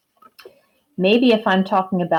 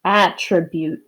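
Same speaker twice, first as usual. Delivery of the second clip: stretched out slowly; 2 semitones lower than usual. Shown as a demonstration. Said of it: "say the word really slow and stretch it out".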